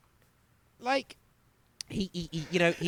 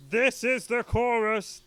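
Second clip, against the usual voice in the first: high, loud, drawn-out yell; mock chorus shout; 11 semitones higher, 6 dB louder, slower than usual. Co-host parodying how Gene writes choruses, shouted. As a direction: parody a rock singer yelling a slogan. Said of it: "just kinda shout it at you".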